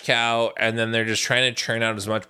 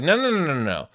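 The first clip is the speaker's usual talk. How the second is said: dismissive interruption; 3 semitones higher than usual. Retold or imitated. Executive shooting down the casting idea, dismissive interruption. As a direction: cut them off with a string of refusals. Voicing executives cutting off the suggestion.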